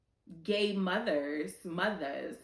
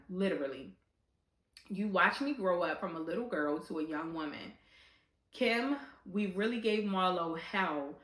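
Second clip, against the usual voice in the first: reads a friend's letter, voice wavering; reading a tribute letter, trying not to cry; reading a letter aloud. Real, not acted. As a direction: read the message with emotion held back.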